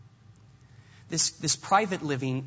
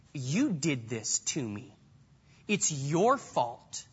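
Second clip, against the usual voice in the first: grieving accusation; 4 semitones lower, slower than usual. Retold or imitated. Voicing the grieving widow blaming Elijah.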